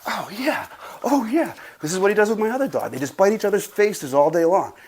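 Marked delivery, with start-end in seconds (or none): 0.0-1.5 cooing at the dog. Real, not acted.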